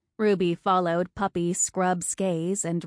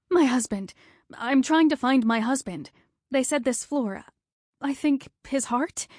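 higher, pleading and desperate; a frightened wife searching for her husband; frantic; 5 semitones higher than usual. Acted. Frantic wife asking the nurse for her husband, higher and urgent.

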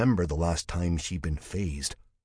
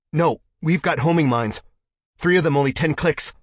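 much higher, louder alarm; 9 semitones higher, 9 dB louder than usual. Acted. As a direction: shout the warning in panic. Sudden alarm at homing mines.

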